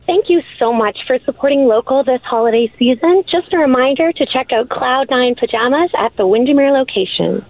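cheerful shop announcement voice; phone voice. Shown as a demonstration. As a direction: sell it like a friendly store recording. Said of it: "I'm gonna do it one more time".

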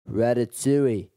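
put-on a touch of drunken Irish; Irish accent. Drunk lingerer piping up from behind, light Irish accent. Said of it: "he just goes".

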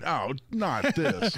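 slow, drawn-out dismay; dismayed groan. Retold or imitated. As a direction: sigh it out like bad news. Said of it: "They're going".

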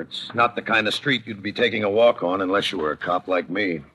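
world-weary detective voice-over; noir narration. A narrator's reading. Detective telling his case to the listener, dry voice-over. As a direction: lay the story out cool and tired like an old cop.

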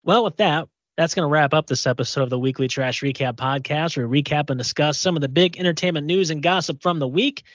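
practised radio host sign-off; podcast outro. Acted. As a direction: wrap up the show like a radio presenter.

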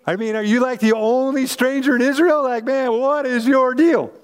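casual surfer-dude Jesus, pitch up on the end; laid-back bro voice. Retold or imitated. Pastor voicing Jesus as a casual bro to the disciples. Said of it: "he's just kinda like".

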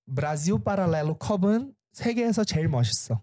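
한국어로 말하기; speaking Korean. Shown as a demonstration. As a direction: rattle off the Korean line on request. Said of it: "fala assim, ó. a caneca da Brasil Paralelo é a mais bonita do mundo".

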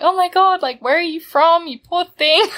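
high, bright cooing as the officers fuss over her; gushing sympathy. Retold or imitated. Police officer gushing to the barefoot Australian, high and sympathetic. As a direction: coo over her like a lost puppy.

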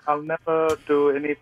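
badly faked British accent; halting stab at a British accent; attempted British accent. Shown as a demonstration. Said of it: "I could try a British accent".

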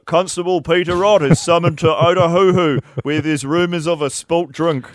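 mock documentary voiceover. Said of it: "the voiceover would be".

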